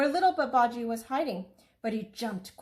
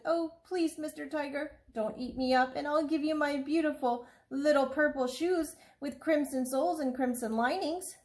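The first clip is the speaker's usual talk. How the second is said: put-on lightly raised small boy's pleading voice; pleading little boy; 6 semitones higher than usual. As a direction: beg the tiger like a scared little boy. Child begging the tiger.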